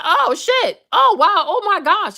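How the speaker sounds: high-pitched string of oh-my-gosh reactions; mock shock. Mimicking a reaction to a friend's grievance, mock shock. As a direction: act out exaggerated astonishment.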